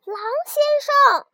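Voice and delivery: the lamb calling down after the fallen wolf. A narrator's reading. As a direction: call 狼先生 up high. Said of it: "就喊了一声".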